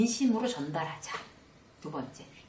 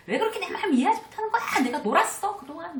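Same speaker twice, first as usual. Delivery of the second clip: high, loud and fast indignant shout; husband snapping back at nagging wife; defensive angry outburst; 11 semitones higher, 5 dB louder, faster than usual. Retold or imitated. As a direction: fire back as if you are the one wronged. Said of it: "적반하장으로 막 이렇게 나온".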